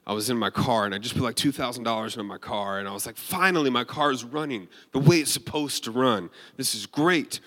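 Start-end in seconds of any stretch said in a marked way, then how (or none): 3.2-7.4 retold relief. Driver to himself about a repaired car, retold relief. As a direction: play back being pleased at last.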